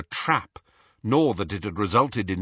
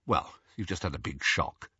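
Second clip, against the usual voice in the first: lower, softer and gentle; kindly; 4 semitones lower, 6 dB quieter than usual. A narrator's reading. Ron comforting a startled Hermione, softly and kindly. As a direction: ease her down kindly. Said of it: "said Ron kindly".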